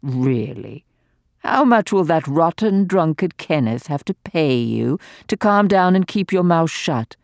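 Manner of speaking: gleeful, venomous dowager mocking the doctor; venomous old lady. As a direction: taunt him with malicious glee.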